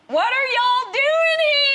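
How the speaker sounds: high squeal of disbelief, imitated; astonished waitress. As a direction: squeal it like a stunned Southern waitress.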